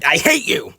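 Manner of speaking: joking, over-the-top "hater" outburst; mock hatred. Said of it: "I'm being sarcastic".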